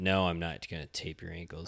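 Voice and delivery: ordinary talk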